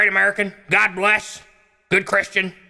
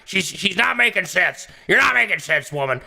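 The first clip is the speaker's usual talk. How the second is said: mock scolding; 2 semitones higher than usual. Caller scolding host.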